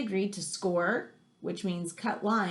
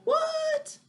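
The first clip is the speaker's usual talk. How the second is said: surprised. Retold or imitated. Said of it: "Cedric just heard that and is like".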